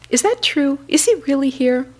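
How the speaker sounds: barely believing the good news; excited. A narrator's reading. Buddha hearing his old friend has come, excited. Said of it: "the Buddha was very excited".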